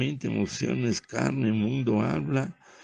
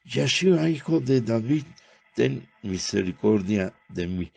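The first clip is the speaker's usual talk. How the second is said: crying out. Retold or imitated. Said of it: "él comenzó a gritar".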